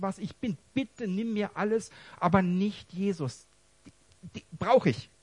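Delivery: pleading cry to God. Retold or imitated. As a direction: beg God not to take Jesus away. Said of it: "dass ich nur noch schreien kann".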